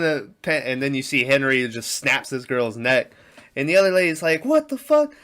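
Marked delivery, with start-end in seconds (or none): 4.4-5.1 high, loud mock outburst of alarm; imitated yell. Other lady seeing her friend killed, imitated alarmed yell. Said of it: "starts yelling".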